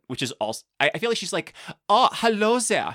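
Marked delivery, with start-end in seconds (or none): 1.9-3.0 put-on slow, loud German accent greeting; lightly put-on German accent. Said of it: "but in a German accent".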